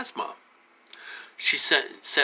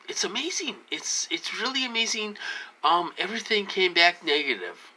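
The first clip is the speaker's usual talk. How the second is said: whispered, higher, mock amazement; sarcastic whisper; 8 semitones higher than usual. Real, not acted. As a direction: breathe it out in disbelief. Sarcastic aside about test results.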